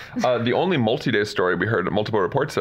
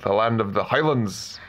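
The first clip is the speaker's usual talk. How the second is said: put-on Scottish accent; 2 semitones higher than usual. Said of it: "my accent keeps going a bit Scottish".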